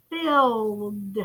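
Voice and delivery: "Filled" drawn out, one syllable ending in D; final-sound demonstration. Shown as a demonstration. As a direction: stretch "Filled" to a soft final D. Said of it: "What's the final sound you hear?".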